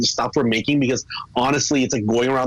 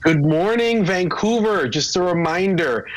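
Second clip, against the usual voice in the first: mock traffic report, higher and brighter; traffic reporter; 4 semitones higher than usual. Guest teasing the hosts with a traffic update, mock reporter voice. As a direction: play the morning traffic reporter as a joke. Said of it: "Thank you for the update this morning".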